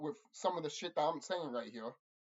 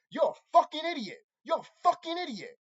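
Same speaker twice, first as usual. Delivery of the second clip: repeated insult; 8 semitones higher, 4 dB louder than usual. Real, not acted.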